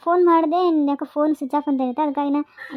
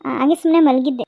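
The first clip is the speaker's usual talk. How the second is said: nervous lying. Acted. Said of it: "ಹೋದ್ ಜೀವ ಮತ್ತೆ ಬಂದಂಗೆ ಆತು".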